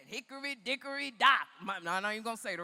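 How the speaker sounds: lightly imitated comic's nursery rhyme; loud, punched comic delivery, lightly put on; Andrew Dice Clay. Comic on stage making women mad, lightly imitated. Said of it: "a man named Andrew Dice Clay".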